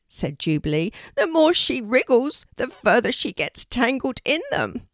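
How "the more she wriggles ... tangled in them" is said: high, loud bird voice; a pleading talking raven. A narrator's reading.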